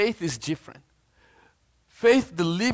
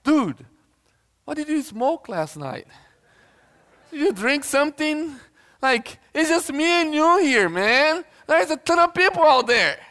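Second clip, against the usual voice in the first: high-pitched comic disbelief; incredulous; 8 semitones higher than usual. Acted. Preacher voicing the servant to Elijah, playful incredulity. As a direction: question a friend's sanity, voice pitched up.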